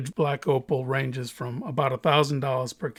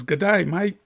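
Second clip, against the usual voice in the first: put-on Australian accent; 4 semitones higher than usual. Opal buyer greeting the cutter in an Australian accent. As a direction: greet like an outback Aussie bloke. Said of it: "That's pretty good, huh?".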